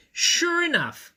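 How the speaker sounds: high, slow drawn-out announcement; dramatic reveal. A narrator's reading. Narrator springing the reveal, slow and high. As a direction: lean into the punchline slowly.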